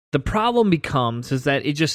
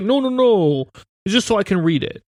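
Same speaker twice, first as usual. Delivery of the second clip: put-on old grandfather voice, pitched up; 5 semitones higher than usual. Retelling a conversation with grandpa: imitating grandpa. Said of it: "He's like".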